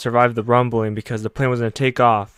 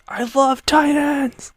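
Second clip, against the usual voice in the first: much higher, slow, drawn-out delight; gleeful cry; much slower than usual. Retold or imitated. Hanji flying at the Titans, much higher gleeful drawl. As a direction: savour every word of the joy. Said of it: "she's really excited 'cause she says".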